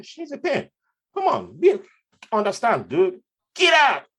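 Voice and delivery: snapping back at the guard who blocks the queue; mock exasperated yell. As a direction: yell back at him in frustration. Retold argument with guard.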